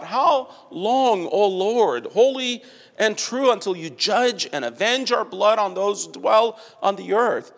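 lifted, ringing plea to God. Retold or imitated. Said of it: "in heaven today cries out".

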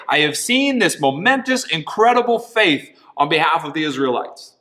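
hammed-up grand voice; mock misquote. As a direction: puff up the false version.

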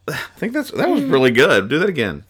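sighing, satisfied candle, lightly voiced. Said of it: "the candle says".

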